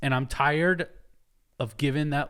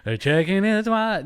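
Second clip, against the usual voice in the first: laughing while talking; 4 semitones higher, 6 dB louder than usual. Real, not acted. Laughing about a singer's list.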